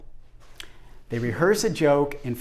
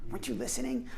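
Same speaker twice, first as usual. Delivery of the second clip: mock bickering; 8 semitones higher, 8 dB quieter, faster than usual. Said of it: "that argument with somebody".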